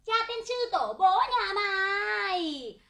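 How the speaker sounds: nhại giọng bà bán hàng chửi đổng, kéo dài, to dần; chửi đổng như bà bán hàng ngoài chợ; bà hàng bánh đúc chửi. Retold or imitated. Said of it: "Con chửi bác nghe nhá". (giả giọng bà bán bánh đúc chửi kẻ ăn quả quýt)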